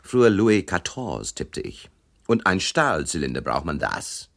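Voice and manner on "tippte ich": breathy whispered aside. A narrator's reading. Unvoiced aside in narration.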